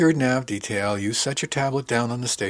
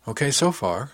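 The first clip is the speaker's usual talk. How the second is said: raised, questioning lilt with a smile; kindly prompt, lightly pitched up; gentle prompting; 5 semitones higher, 3 dB louder than usual. Acted. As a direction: gently check they are following. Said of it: "she prompted gently with a smile".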